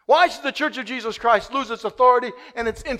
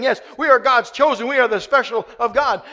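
mock proud boast; 2 semitones higher, 6 dB louder than usual. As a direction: ham up their self-importance. Mocking Israel's boast.

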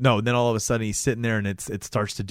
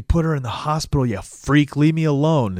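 higher, louder mock outburst; retold angry retort; 5 semitones higher, 4 dB louder than usual. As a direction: act out telling someone off. Acted angry retort to Tim.

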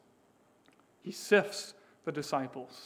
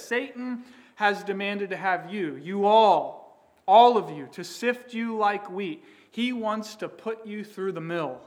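Jesus paraphrased emphatically; 3 semitones higher, 7 dB louder than usual. Retold or imitated. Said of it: "what Jesus is saying is this".

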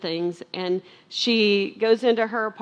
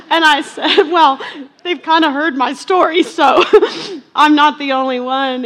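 much louder and higher, laughing through the words; chuckling through her own reply to her daughter; 7 semitones higher, 12 dB louder than usual. Real, not acted. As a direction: laugh as you tell it. Laughing while retelling her answer.

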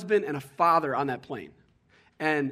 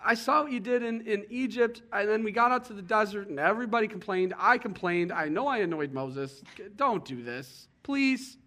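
high, pleading imitation of a nervous Joshua; 4 semitones higher than usual. Joshua begging God not to send him, high pleading. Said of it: "Joshua's position there and going".

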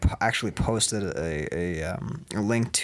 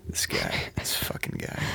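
unvoiced irritated whisper; 8 dB quieter than usual. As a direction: hiss it under your breath. Aside about the roommate.

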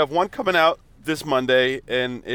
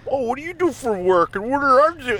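mock interviewer voice; 11 semitones higher than usual. Mocking podcast small talk.

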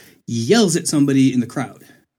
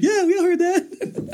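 much higher, slow sing-song yes; mock crowd agreeing. Everyone in the room agreeing they heard, slow high mock chorus. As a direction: drawl it like the whole room.

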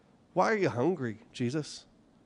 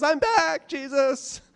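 higher, sneering devil's return; mock devil; 11 semitones higher, 3 dB louder, slower than usual. Pastor imagining the devil coming back, gloating and high. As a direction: announce yourself like a gloating villain.

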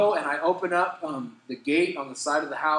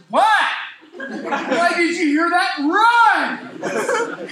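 loud, high, laughing alarm; laughing run for it; panicked urging; 9 dB louder, much slower than usual. Retold or imitated. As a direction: hurry him up, half laughing.

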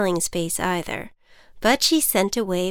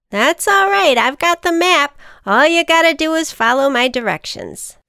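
much higher, louder confident ant; 8 semitones higher, 6 dB louder than usual. Acted. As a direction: calmly take charge. Ant character voice.

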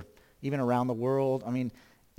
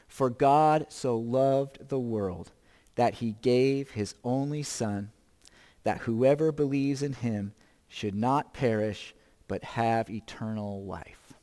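scripture reading; 2 semitones lower than usual. Acted. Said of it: "would you read along with me".

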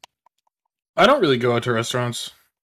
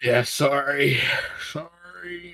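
talking through hiccups; words broken by hiccups; hiccuping; 5 dB quieter, much slower than usual. Real, not acted. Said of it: "I'm hiccuping".

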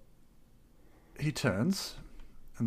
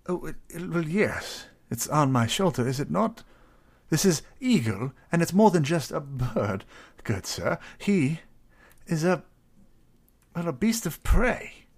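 courteous, slightly higher character voice; polite adventurer; 5 semitones higher, 7 dB louder than usual. Acted. Adventurer asking his eagle to scout the town, polite and fussy. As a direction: ask the bird politely, a little fussy.

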